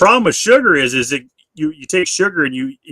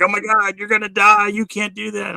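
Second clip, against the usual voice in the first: higher-pitched mock panic; alarmed naysayers; 7 semitones higher than usual. People reacting to the diet, mock alarm. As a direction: imitate worried people in a raised pitch. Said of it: "you know, they're like".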